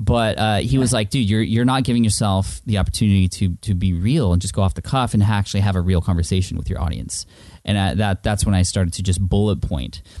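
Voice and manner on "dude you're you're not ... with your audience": normal talking voice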